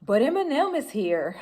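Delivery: casually delivered, with a lilt up in pitch. Retold or imitated. Friend passing on news to the group, casual. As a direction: toss it off as no big deal. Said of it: "She says it so casual".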